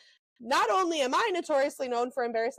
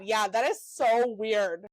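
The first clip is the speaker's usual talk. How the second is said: fake disowning; 4 semitones lower, slower than usual. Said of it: "And so I'm like".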